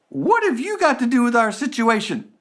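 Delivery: high, sneering bad guy. Bad guy sneering at the rescuer. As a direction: toss it off like the villain. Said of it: "the bad guy says".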